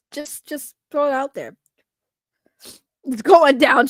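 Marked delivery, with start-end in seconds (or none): 3.0-3.9 louder read of a chat yell. Retold or imitated. Reading the viewer's message aloud, mock yell. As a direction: call it out like the chat yelled it. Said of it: "she's yelling".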